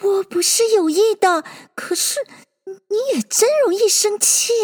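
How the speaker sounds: high, plaintive little voice; beseeching, pitched high; pitiful pleading. A narrator's reading. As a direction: plead that you meant no harm. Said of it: "苦求道".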